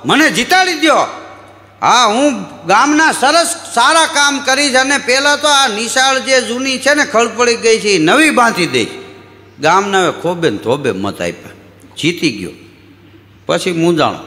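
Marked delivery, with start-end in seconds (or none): 0.0-8.9 campaigning candidate. Retold or imitated. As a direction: shout your promises door to door. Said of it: "ઈ કે". (ઘેર ઘેર મત માગતો ઉમેદવાર, ઊંચા સાદે)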